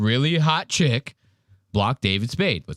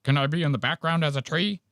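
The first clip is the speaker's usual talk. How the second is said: begging mock; 3 semitones higher, faster than usual.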